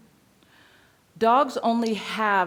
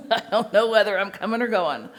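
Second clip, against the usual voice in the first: confused dog; 3 semitones lower than usual. Retold or imitated. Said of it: "sitting there going".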